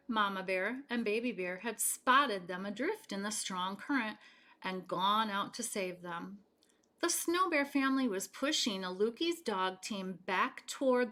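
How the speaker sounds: gentle read-aloud storytelling voice; story narration. Acted. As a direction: read it to children at bedtime. Reading picture book aloud.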